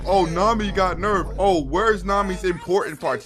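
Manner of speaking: loud, slowed mock complaint; mock complainer. YouTuber imitating weird fans griping about Nami, mocking. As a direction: lightly mimic a complaining fan. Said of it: "any weird nigga out there talk about some".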